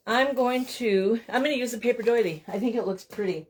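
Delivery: ordinary talk, nothing marked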